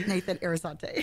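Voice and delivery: Arizate with a little Spanish fire, laugh close behind; amused, Hispanic-accented Arizate; Hispanic-style surname. Real, not acted. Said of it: "why do you pronounce his last name like that?".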